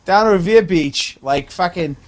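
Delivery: a lightly put-on Boston accent, grumbling; a Revere Beach guy with a light Boston accent, griping about freestyle; mock Boston accent. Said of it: "You gotta fucking talk English to me".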